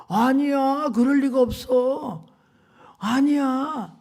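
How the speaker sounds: loud, high protest of disbelief; shocked denial. Retold or imitated. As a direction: refuse to believe it. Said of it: "wife denying husband's fall".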